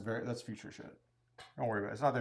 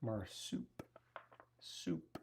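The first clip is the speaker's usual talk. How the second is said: "Marsupial" drawn out very slowly through laughter; laughing repeat; 2 semitones lower, 10 dB quieter, much slower than usual. Real, not acted. Cohost teases his word choice, laughing drawn-out "Marsupial". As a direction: savour "Marsupial" while giggling. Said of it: "He said marsupial".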